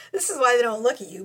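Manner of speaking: laughing while repeating the point. Shown as a demonstration. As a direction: giggle it out with a teasing push. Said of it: "repeated with laugh".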